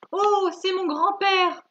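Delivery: loud, high, drawn-out cry of discovery; stretched, high-pitched acted outburst; delighted exclamation. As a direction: exclaim it theatrically as the storybook grandmother. Acted reading of grandmother's exclamation.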